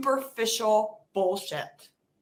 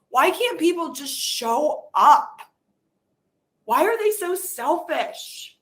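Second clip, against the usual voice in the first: frustrated outburst; 3 semitones higher, 6 dB louder than usual. Acted. Venting frustration at uncaring people.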